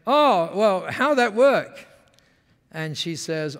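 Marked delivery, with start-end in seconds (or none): 0.1-1.9 higher, louder mock Japanese-English; mirrored pidgin English. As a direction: eagerly echo her Japanese-style phrasing. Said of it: "you speak like that".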